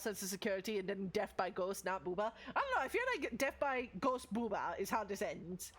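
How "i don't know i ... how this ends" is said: normal talking voice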